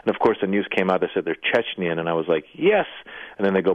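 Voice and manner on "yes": a sudden high, loud cry of relief; excited yes. Retold or imitated. Comic recalling his relief at the news, an excited cry. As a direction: blurt it out like a won bet. Relief that bombers aren't Middle Eastern.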